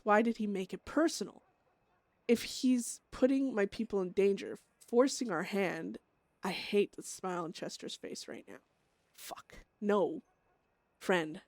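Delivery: anguished, tense inner monologue; Beth torn. Acted. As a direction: wrestle with a friend's death sentence. Beth's monologue, forced to kill friend.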